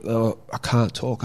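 slurred speech. Retold or imitated. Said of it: "I start to slur my words".

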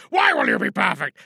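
Geronimo's other self. Acted. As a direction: snap back at your own boast. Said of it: "that's Geronimo Stewart".

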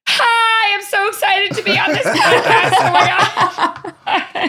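high, gushing, giggly greeting; bubbling over with excitement; overexcited gush. Pretend. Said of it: "Let me try again".

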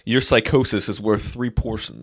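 slow, put-on junk dealer appraisal; drawn-out Star Wars character voice; Unkar Plutt. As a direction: announce it slowly like an alien trader. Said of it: "It's a little Unkar plot".

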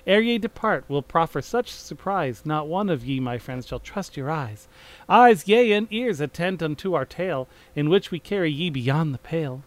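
theatrical rhymed verse, declaimed to an audience; Shakespearean prologue reading. Acted. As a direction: announce the prologue like a chorus on stage. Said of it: "you read those different, the prologue".

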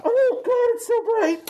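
high hammed-up cry of pain. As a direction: wail like the light burns. Character blinded by flash.

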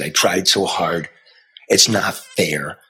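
hurt despair. Retold or imitated. A father telling his daughter his hurt. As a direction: let the hurt slow you down.

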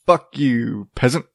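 lightly smarmy rich-snob put-down; mock smarmy. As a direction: play at talking down to a peasant. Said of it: "They're gonna be all smarmy".

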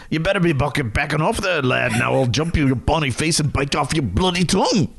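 a mild Scottish tough-guy warning; mock Scottish threat to a brawler; Scottish brogue. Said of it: "in Scottish".

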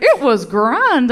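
lightly mocked boyfriend, slow and drawn out; boyfriend attempting Irish slang. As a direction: stretch it out, imitating a man trying out slang. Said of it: "he tried to speak my language".

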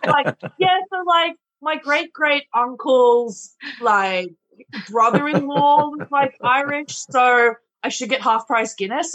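mildly mock a customer pleading their Irish roots; slightly hammed-up entitled punter; boastful customer. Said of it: "customers need to tell you what percentage Irish they are".

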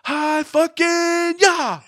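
high, loud hammed-up battle cry; mock yell. Host imitates Cage's final line in a high hammed-up yell. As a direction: screech it like a maniac. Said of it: "he has the final line".

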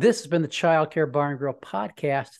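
official announcer outro; public radio host. Shown as a demonstration. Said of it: "the public radio voice".

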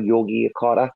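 "Yogi Yakarta", Yogi said like Yogi Bear, then Yakarta; "Yogi Yakarta" said clearly, ending on a rise; pronouncing Yogyakarta. Shown as a demonstration. Explaining the Indonesian city's name to friends, repeats "Yogi Yakarta" like Yogi Bear. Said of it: "like Yogi Bear".

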